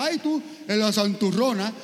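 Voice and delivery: fast teasing jab at the churchgoer; mocking jab. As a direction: rattle it off like a snide relative. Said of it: "se molesta como quiera".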